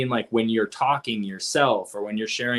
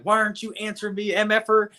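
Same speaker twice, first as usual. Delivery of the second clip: imitating Nicole; 7 semitones higher, faster than usual. Quoting Nicole's angry text.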